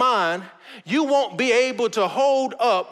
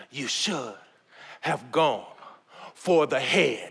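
deep, quiet villain voice; bad acting; 9 semitones lower, 5 dB quieter, slower than usual. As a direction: growl it low and slow like Thanos. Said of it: "excuse my acting. I know it's terrible".

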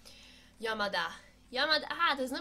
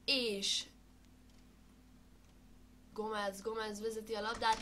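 sports commentary. Pretend. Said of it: "én vagyok a kommentátor".

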